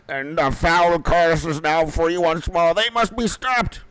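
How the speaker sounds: slow, high, theatrical proclamation; dramatic quest character. Acted. Game character warning that the curse is free, in slow, rising melodrama. Acting out urgent quest dialogue.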